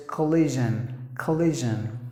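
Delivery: collision as kuh-LI-zhun with buzzed zh; correct pronunciation. Shown as a demonstration. Teacher summing up for learners, collision with short kuh and voiced zh. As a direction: voice the zh in collision, falling at the end. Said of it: "you have to pronounce the word as".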